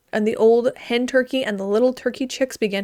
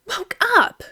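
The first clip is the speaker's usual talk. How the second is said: shouted; 10 semitones higher than usual. A narrator's reading. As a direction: shout it as she jolts awake. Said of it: "shouted the little girl".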